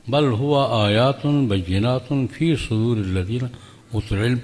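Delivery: slow, measured Arabic recitation; Quran recitation. Acted. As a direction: intone the verse reverently.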